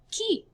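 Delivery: "Qui" with a plain K, pitched high; high, isolated model of "Qui"; K sound. Shown as a demonstration. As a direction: say "Qui" with K, no W glide. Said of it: "So this is pronounced qui".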